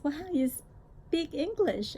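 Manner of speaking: drawn out wow, like a surprised tourist; lightly voiced surprised American woman; surprised American lady. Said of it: "she was surprised".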